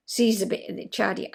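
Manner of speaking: amateur Scots, testing the phrase; unsure, put-on Scottish lilt; tentative Scottish accent. Shown as a demonstration. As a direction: have a rough go at Scottish dialect. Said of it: "It's probably still not right".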